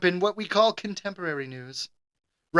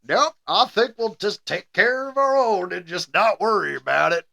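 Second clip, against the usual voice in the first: lazy Southern twang on a supposed German; Southern accent. Retold or imitated. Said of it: "why my German guy is, uh, Southern".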